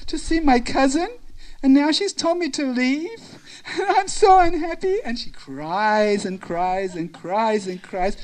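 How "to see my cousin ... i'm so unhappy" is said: high, plaintive tale of woe; mock-weepy high voice; acted crying. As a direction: plead in pieces, pausing as if tearful. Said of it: "And she's crying, and she says".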